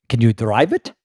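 lightly imitated German accent; a hint of German accent on the question; Tom. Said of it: "he does have a German accent".

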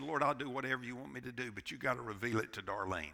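soft, fast, hushed plea; a touch of a weeping prayer, quiet and quick; man pleads with God on his knees; mild retold tearful prayer. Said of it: "cried like a baby and said".

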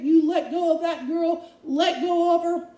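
forceful deliverance command; rebuking command. Pretend. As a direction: drive the demon out. Commanding a demon spirit.

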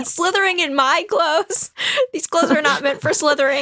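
high, hammed-up protest; mock indignation. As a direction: play scandalized, close to laughing. Acts Jonathan's indignation over his clothes.

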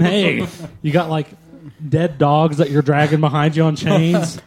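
slow, hammed-up clueless adopter; lightly voiced oblivious applicant; mock adopter. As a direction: drawl it out like a clueless dog buyer. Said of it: "you just walk in".

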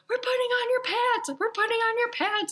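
high, strained mock yell at the child; frazzled insistence. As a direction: insist through gritted teeth. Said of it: "I'm like".

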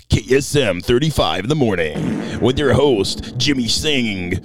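slow, lightly done radio DJ intro; radio host. Pretend. Joking that it sounds like a radio show, mild DJ voice. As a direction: roll it out like a morning show. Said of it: "it's like one of those radio shows".

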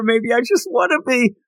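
high, breathy-free vamp coo in a put-on voice; sultry tease. Teasing the stunned fighter in a high vamp voice. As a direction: purr the line like a cartoon seductress. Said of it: "She said".

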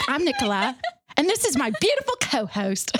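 badly faked English host introduction; mock-English accent, on the edge of giggles. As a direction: attempt an English presenter's intro. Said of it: "It's so bad".

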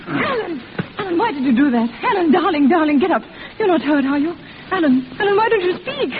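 panicked, tearful pleading, voice pitched high; frightened crying out. Acted. Kitty over the fallen Alan, crying in high panic. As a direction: beg him to answer, near sobbing.

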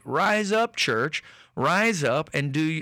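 high-pitched exhortation, rising on "up"; rallying call. Acted. Preacher calls the church to stand up, rallying call. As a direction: urge the church to rise up.

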